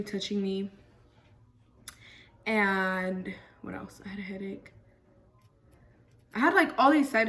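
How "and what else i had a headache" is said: whispered aside. Real, not acted. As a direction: breathe the question out under her breath. Aside while listing symptoms.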